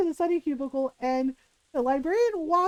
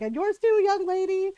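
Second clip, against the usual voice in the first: stern librarian; 6 semitones higher, 4 dB louder than usual. Retold or imitated. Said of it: "she's like".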